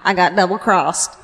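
lightly put-on accent for a wronged defendant; a hint of an imitated accent; attempted accent, playing the double-crossed woman; Holly Hunter. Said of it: "I'm just doing Holly Hunter".

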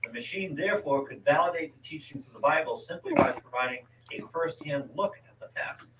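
article read out to a co-host; reading aloud. Real, not acted. Host tells co-host who built the chronovisor, reading aloud. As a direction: read it from the page, steady and informative.

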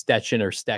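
"Stetchen" with ch, then "Stecken" with k; two pronunciations contrasted. Shown as a demonstration. Host relays listeners' question, "Stetchen" with ch or "Stecken" with k. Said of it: "were asking if it's".

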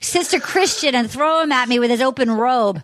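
hammed-up Boston accent. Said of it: "Can I do a Massachusetts accent".

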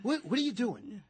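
high, hammed-up outrage; mock scolding. Host scolding a smiling tourist, mock outrage. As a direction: shame the grinning tourist, half joking.

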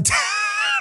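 a sudden high airy burst of laughter; amused laugh. Real, not acted. Host laughing at his own sarcastic liberal impression. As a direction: crack up at your own joke.

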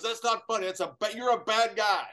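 high, loud mock scolding; imitating Kurt, scolding. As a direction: play the partner telling him off. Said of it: "He goes".

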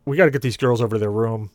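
lightly voiced tough guy; firm, squared-up warning; a hint of tough-guy bluster. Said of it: "in my best tough guy voice".

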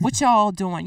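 What y'all doing? with a Southern drawled y'all; a touch of Southern twang on y'all. Shown as a demonstration. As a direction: say y'all like a Southern county boy. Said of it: "I always say".

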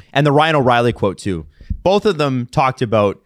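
talking while chewing; chewing into the mic; mouth full. Real, not acted. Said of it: "Stop chewing into the mic".

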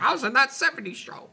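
high, whiny-comic mock actor voice; mock a lightweight actor in a high pitch; Topher Grace. Mocking a miscast Venom, high put-on voice. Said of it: "Topher Grace is in there like".

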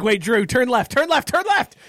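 nagging backseat driver. Retold or imitated. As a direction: nag the driver to turn. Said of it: "I'm a backseat driver".

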